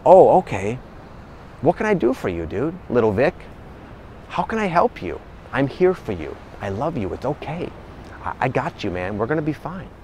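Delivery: put-on soft, gentle reassurance to your inner child; tender self-compassion. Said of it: "have the attitude like".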